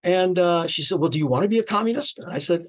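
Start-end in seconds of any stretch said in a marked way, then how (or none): 1.0-2.2 very bright. Retold or imitated. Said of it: "very brightly said".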